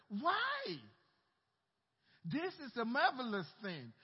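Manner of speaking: incredulous. Acted. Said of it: "The men answered and said".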